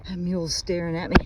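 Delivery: breathless and a bit fast; winded from pushing the lawnmower; out of breath. Real, not acted. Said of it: "sorry I'm out of breath".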